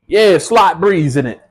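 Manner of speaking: slow put-on UK roadman accent; mock British roadman. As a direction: lean into a London roadman drawl. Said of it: "I'm back on my U K roadman thing".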